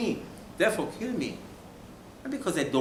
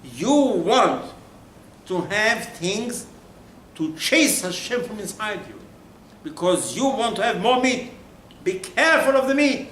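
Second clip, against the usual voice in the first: raised warning voice; 5 semitones higher, 4 dB louder than usual. Acted. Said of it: "Says the Torah".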